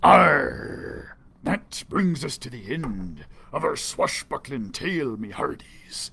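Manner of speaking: lightly voiced pirate sign-off; a hint of a pirate farewell. Narrator bids listeners goodbye as a pirate.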